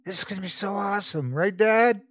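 put-on rushing with childish excitement; excited kid voice. A narrator's reading. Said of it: "Brian giggling excitedly".

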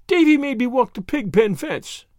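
put-on high, tearful child's wail. A narrator's reading. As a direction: wail it like a muddy little girl. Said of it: "wailed Dora".

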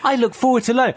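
high prissy voice of a keen pupil; mocking an over-keen child; mock eager pupil. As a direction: play the goody-goody pupil.

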